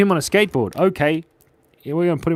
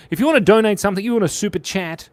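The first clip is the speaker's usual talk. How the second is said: put-on Mexican accent; 6 semitones higher, 4 dB louder, much faster than usual. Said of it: "I'm gonna put on my Mexican accent".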